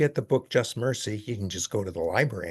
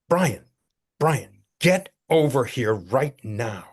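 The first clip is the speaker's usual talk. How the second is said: stern mother; 2 semitones higher, 4 dB louder, slower than usual. Retold or imitated. Mother scolding son after church.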